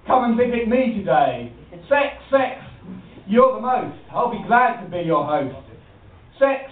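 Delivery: chanting a cheeky rhyme; sing-song comic verse; comic poem recital. Acted.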